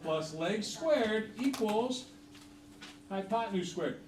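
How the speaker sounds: very slow, spaced dictation; slow dictation to the class; dictating slowly. Shown as a demonstration. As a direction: give them time to write each word. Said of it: "I want you to write this down".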